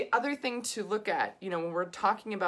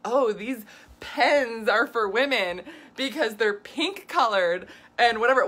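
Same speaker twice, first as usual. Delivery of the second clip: mocking sales pitch; 3 semitones higher, 6 dB louder than usual. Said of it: "they'll be like".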